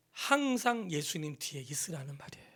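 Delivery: soft unvoiced explanation; whisper. Real, not acted. Pastor explaining to the flock, in a whisper. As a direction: lean in and whisper it.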